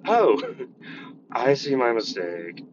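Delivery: mock kid voice. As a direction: overplay the sheepish kid.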